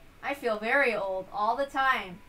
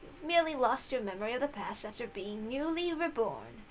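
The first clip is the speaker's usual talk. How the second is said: put-on comforting old servant; 4 semitones higher than usual. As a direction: soothe her like a grandmother. Kumasawa comforts.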